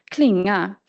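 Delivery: "Klinga" as a careful Swedish example word; Swedish pronunciation. Shown as a demonstration. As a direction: demonstrate Swedish "Klinga" with clear pitch movement. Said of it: "demonstrate the pronunciation of these words".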